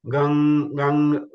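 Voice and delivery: "gang" sounded in throat and nose at once; two-place nasal. Shown as a demonstration. Teacher drilling two places, nasal throaty "gang". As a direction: focus the ng of "gang" in both places. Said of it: "focus on two places".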